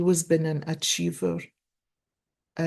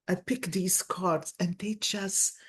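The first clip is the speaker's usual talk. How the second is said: whisper; 5 dB quieter than usual. Real, not acted. Unvoiced aside while picking cards.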